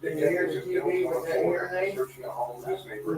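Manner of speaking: distant tv news from another room; tv through the wall. Real, not acted. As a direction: tv news faintly in the background. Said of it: "Can you hear the T V?".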